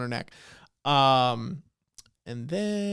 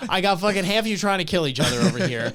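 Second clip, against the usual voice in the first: louder mock exasperation; fed-up rant; 3 semitones higher, 4 dB louder than usual. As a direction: rant like someone who has had enough. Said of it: "just had it at this point".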